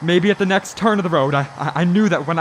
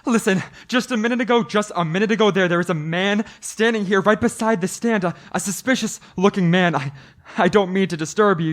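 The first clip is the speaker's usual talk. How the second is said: urgent pleading; 5 semitones higher than usual. Acted. Driver begging the stand keeper.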